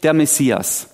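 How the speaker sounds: enthusiastic crowd. Acted. Preacher voices people expecting the Messiah, enthusiastic. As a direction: announce the long-awaited arrival with acted enthusiasm. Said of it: "Die Leute sind begeistert".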